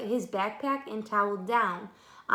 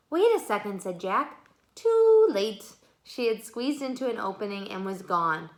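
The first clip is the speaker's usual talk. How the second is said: steady, unhurried read-aloud voice; story narration. A narrator's reading. Reading the book aloud to children, gentle storytelling. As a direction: read the chapter to young listeners.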